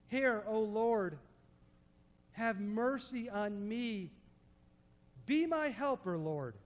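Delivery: slow, drawn-out imploring prayer; calling on God. Retold or imitated. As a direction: call out for mercy, dropping on the last word. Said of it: "Now he's calling on God".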